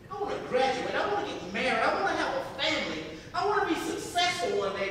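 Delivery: acted son pleading his ambitions; impassioned hope. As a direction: build with eager determination. Son pours out his dreams.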